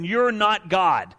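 very slow, each word weighted; slow emphatic. Acted. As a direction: drop it slowly and heavily. Sermon punch line.

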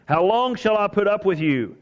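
acted exasperation at a fickle crowd; frustrated rebuke. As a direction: plead in frustration, pitch lifted. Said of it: "It's called frustration, isn't it?".

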